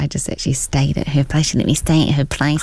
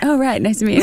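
imitating Sam Rockwell; 5 semitones higher, faster than usual.

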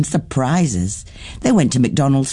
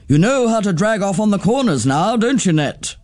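a hint of a bold, fond aunt; Auntie Twinkle; 4 semitones higher than usual. Auntie Twinkle praising Nettie, lightly voiced and easygoing.

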